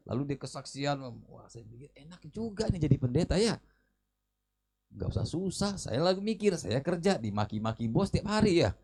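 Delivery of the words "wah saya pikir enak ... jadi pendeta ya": normal talking voice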